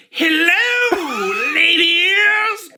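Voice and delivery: high, loud hello; loud greeting. Acted. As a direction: call it out.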